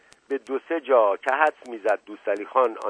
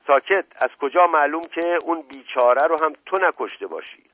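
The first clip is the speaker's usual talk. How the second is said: higher, forceful interrogation; sharp accusation; 5 semitones higher, 4 dB louder than usual. Acted. Inspector silences the suspect and suspects another killing, accusing. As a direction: cut him off and accuse him.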